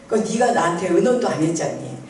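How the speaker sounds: a kind father's mild correction; gentle, not rebuking. Retold or imitated. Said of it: "막 책망하시지도 않고 따뜻하게". (따뜻하게 타이르는 목소리)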